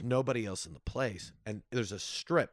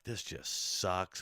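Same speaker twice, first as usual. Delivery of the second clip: slow, low, softer deflated complaint; depressed; 4 semitones lower, 5 dB quieter, much slower than usual. Retold or imitated. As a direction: drag it out, downhearted. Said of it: "I was so depressed".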